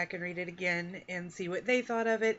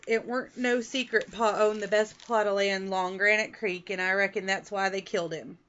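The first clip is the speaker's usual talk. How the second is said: lightly put-on Midwest country accent, a bit louder; 5 dB louder than usual. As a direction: read it like the hicks down the road, only lightly. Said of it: "that we speak in the Midwest".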